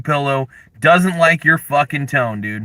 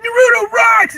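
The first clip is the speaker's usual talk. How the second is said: high squeaky mock fanboy; 4 dB louder than usual. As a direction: squeal it like a dumb fan. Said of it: "everybody's like".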